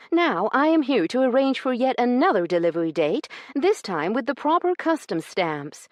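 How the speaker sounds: high, loud, prim indignant lady's voice. Acted. Io accusing Branson over the missing stamps, indignant and high. Io demands a new date.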